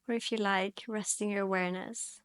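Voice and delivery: calm yoga instruction with long pauses; guided meditation. Real, not acted. Yoga teacher guiding students into their breath, calm guided meditation. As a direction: guide gently, leaving space to breathe between phrases.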